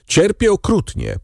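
high-pitched anguished insistence; udręczone wyznanie. A narrator's reading. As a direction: plead suffering, rising well above narration. Starving prisoner insists on his suffering. (wysoki, udręczony głos)

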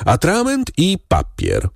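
a high called-out order; shouted order. A narrator's reading. Zebrzydowski calls to the footman, shouting. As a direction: call sharply across the room for ink. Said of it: "Zebrzydowski krzyknął na lokaja".

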